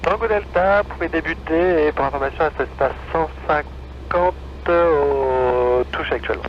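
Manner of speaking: tinny controller voice; over a radio. Real, not acted. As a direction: heard through the headset. Tower calls over the radio.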